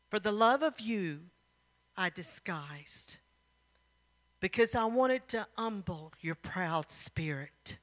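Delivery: lightly acted tender sincerity; tender declaration. King declares love to her.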